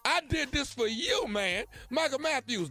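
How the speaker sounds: excited shout-out. Real, not acted. Shout-out to a friend.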